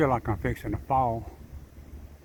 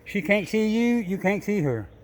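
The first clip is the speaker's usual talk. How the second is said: playful teasing; 6 semitones higher than usual. Real, not acted. Squeaky teasing talk to pet.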